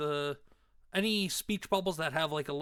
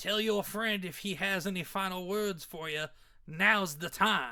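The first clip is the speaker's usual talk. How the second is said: put-on loose, rough, not-quite Cajun accent; 2 semitones higher than usual. Voicing a character in a story set in New Orleans, attempted Cajun accent. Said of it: "I'm using the accent because".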